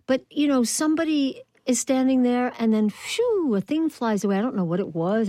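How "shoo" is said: airy high whoosh sound; whoosh imitation. Host describing a stage trick, airy whoosh. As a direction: imitate something flying past. Imitates a thing flying away.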